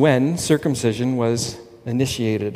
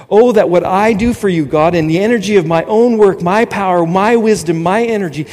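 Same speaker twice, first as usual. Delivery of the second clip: mock earnest prayer; 4 semitones higher, 3 dB louder than usual. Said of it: "We often have prayer meetings like that".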